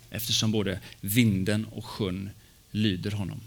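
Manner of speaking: measured, solemn Bible reading; scripture reading. Acted. Pastor reads the Gospel text to the congregation, solemn reading. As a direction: read the storm passage to the congregation.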